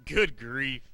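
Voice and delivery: loud good grief; exasperated. Acted. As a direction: sigh it out loudly. Exasperated at punchline.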